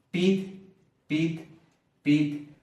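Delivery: "Pit" repeated as a separate, stressed beat; stress on the root. Shown as a demonstration. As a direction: tap out each "pit" on its own. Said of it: "la fuerza de voz está cayendo aquí". ("pit" repetido, con fuerza de voz en cada sílaba)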